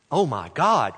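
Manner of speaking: mild exclamation of disbelief; can't-believe-it reaction. Shown as a demonstration. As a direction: say it briskly, as a stock exclamation. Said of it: "statement that shows we can't believe it".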